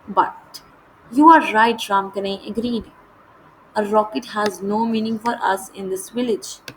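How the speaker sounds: measured, slow read-aloud of the English text; deliberate storybook narration; slow story reading. A narrator's reading. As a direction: read each phrase out slowly and clearly, like a lesson passage.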